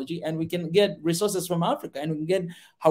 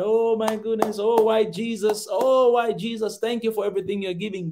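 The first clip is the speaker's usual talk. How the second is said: raised, slowed, gushing thanks to Jesus; mock grateful praise; 4 semitones higher than usual. African listener mockingly thanking lenders, gushing grateful voice. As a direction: play the naive grateful believer, overdoing the thanks. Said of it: "We think they're doing something so good".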